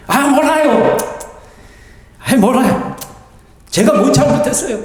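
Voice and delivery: mock-stubborn retort, brushing off blame; defiant sulking. Preacher voices Jonah refusing God's correction, defiant sulking. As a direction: imitate someone digging their heels in. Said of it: "삐딱선을 확실히 타기로 작정했어요".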